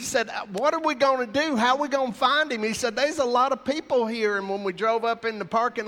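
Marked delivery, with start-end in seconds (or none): 0.5-4.4 laughing through tears. Retold or imitated. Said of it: "he's trying to laugh, and he's crying".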